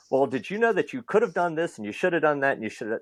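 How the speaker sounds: piling on critiques in a rush; nagging parent. Retold or imitated. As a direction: rattle off the should-haves like a nagging parent. Mimics parent critiquing after win.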